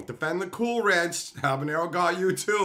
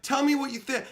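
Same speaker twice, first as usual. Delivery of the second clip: imitating his wife; 10 semitones higher than usual. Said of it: "She's like".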